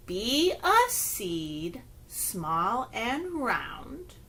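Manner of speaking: very slow, soft rhyme; slow finger play. Shown as a demonstration. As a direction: draw each word out for little ones. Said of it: "And it goes like this".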